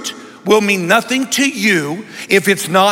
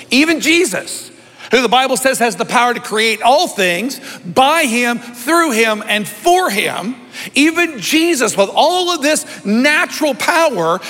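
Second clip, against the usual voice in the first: rising fervor; 5 semitones higher than usual. Real, not acted. Preacher building on Jesus' power.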